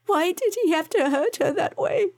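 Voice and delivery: high, tearful plea; anguished crying. A narrator's reading. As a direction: cry out the question in anguish. Joanna sobbing to Rylan.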